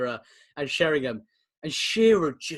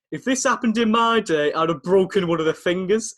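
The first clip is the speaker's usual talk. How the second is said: mock threat, raised and louder; Kevin Keegan; 4 semitones higher, 5 dB louder than usual. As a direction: quote an old pro's threat with extra force. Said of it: "co-commentator to be threatening people".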